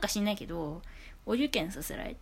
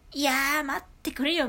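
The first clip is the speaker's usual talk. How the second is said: louder, pleading wait-a-minute protest; mock protest; 6 semitones higher, 7 dB louder than usual. Speaker protesting to someone who calls her noisy, louder mock plea. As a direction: throw up your hands and protest out loud.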